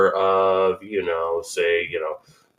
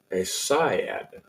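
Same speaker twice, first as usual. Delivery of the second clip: "sigh" set apart with emphasis; stress on sigh; 3 semitones lower, 5 dB quieter than usual. Shown as a demonstration. Host showing where the emphasis falls, stress on "sigh". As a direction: put the weight squarely on "sigh". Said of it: "emphasis on the sigh".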